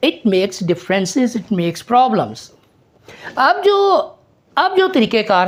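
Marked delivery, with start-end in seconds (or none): 0.1-2.5 "it makes differences" drawn out slowly, each word weighted; slow stressed demo. Shown as a demonstration. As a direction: spell it out slowly for the class. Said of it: "लेकिन". (धीरे-धीरे, हर शब्द पर ज़ोर)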